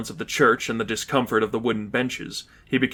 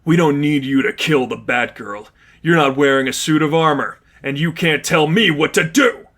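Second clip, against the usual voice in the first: raised, defiant shouting; angry defiance; 3 semitones higher, 3 dB louder than usual. Acted. Miles defying Lipov, angry raised voice. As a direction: snap back at him, bullheaded.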